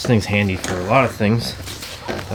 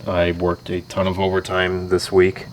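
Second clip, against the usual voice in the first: tired radio voice; 2 semitones lower, slower than usual. Real, not acted. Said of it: "very soothing radio voice I have today".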